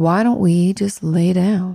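low, slow, drawn-out, gloomy drawl. Explaining depression, voicing the depression cat in a slow, low voice. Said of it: "she talks with a slow, low voice".

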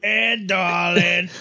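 put-on cartoonish woman's voice. Reminiscing about an old cartoon with others, doing a Mrs. Bighead voice. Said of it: "That's the wife's voice".

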